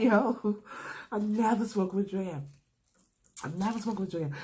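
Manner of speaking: imitating a scared friend protesting his innocence. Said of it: "He gets real scared then".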